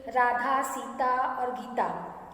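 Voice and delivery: राधा, सीता और Gita slowly, each name set apart; short pauses in list. Shown as a demonstration. Teacher showing commas in a word list, short pauses between names. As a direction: linger on Radha and Sita, small break after each. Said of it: "जिनमें बहुत थोड़ा थोड़ा सा रुकने के लिए".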